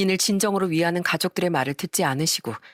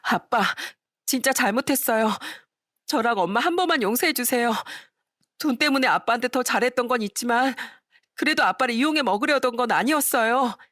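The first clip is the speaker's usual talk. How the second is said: put-on higher, begging young woman's voice; pleading daughter; 6 semitones higher than usual. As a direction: plead with father for forgiveness. Daughter begs her father.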